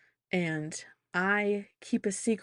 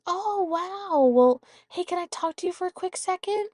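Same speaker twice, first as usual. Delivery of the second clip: grandma voice; 11 semitones higher, 3 dB louder than usual. Retold or imitated. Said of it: "And she goes".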